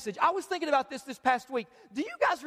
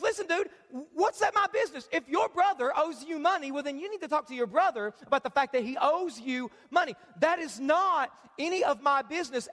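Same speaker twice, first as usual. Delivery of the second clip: 1 casual Jesus; 3 semitones higher than usual. Retold or imitated. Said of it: "In other words, Jesus says".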